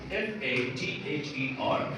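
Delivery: letters spelled out slowly, one by one; patient teacher spelling the word out slowly. Shown as a demonstration. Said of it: "like we say".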